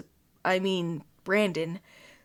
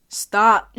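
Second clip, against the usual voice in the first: laughing; 11 dB louder than usual. Real, not acted. Laughing plea to stop.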